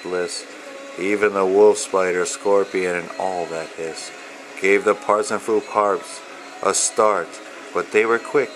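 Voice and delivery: steady, rhythmic read-aloud of rhyming verse; reading to children. Acted. Author reading his picture book to young children, rhythmic storyteller voice. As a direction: lilt through the rhymes like a bedtime book.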